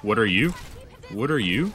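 loud, flustered stammering; flustered panic. Real, not acted. Player suddenly under attack in game, flustered panic. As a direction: stammer loudly, thrown by the attack.

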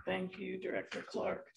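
hoarse, strained, half-whispered; losing voice. Real, not acted. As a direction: voice nearly gone, rough and weak. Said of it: "I'm losing my voice".

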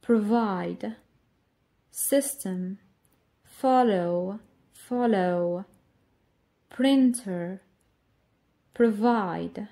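each word said slowly with its stressed syllable marked; word stress demo. Shown as a demonstration. Teacher modelling word stress for the class, stressed syllables marked. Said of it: "ونسمع".

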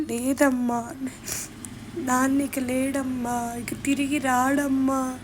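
slow, soft, grieving words; gentle sad telling. Retold or imitated. Daughter telling mother father is dead, slow and soft. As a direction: break it to her softly and slowly.

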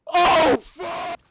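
sudden loud yelp of surprise; startled shout. Real, not acted. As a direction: blurt it out, caught off guard. Sudden enemy spotted in game.

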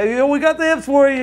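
high-pitched, humoring a friend cheerfully; acted-out enthusiastic reassurance; upbeat reply. Re-enacts his upbeat answer to friend.

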